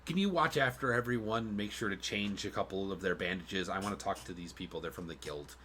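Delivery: whispering. Acted. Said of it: "he kinda just whispers".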